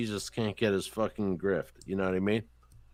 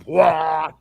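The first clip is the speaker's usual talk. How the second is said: mock guffaw; 4 semitones higher, 7 dB louder than usual. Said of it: "to make Steve fucking go".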